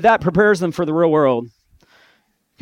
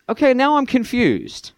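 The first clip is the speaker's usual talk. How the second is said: mock confusion; 10 semitones higher than usual. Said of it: "I'm like".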